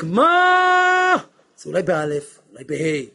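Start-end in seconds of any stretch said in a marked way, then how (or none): 0.0-1.2 a high, loud yell of מה; shouted what. Shown as a demonstration. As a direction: shout מה sharply. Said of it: "כשאני צועק".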